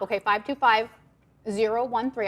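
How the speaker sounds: talking with a mouthful of chocolate; mouth full. Real, not acted. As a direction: speak around a bite of candy. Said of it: "I have my mouth full".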